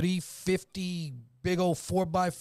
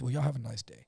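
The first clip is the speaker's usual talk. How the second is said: cool Doc Holliday drawl; 4 semitones lower than usual. Retold or imitated. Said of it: "He's like Doc Holliday".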